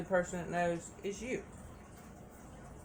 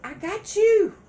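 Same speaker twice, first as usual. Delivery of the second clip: put-on rising higher and louder, crooning baby; mimicking a smooth-talking partner, climbing high; mock sweet-talker; 6 semitones higher, 6 dB louder than usual. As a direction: croon empty promises to your baby. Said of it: "they sat there and told".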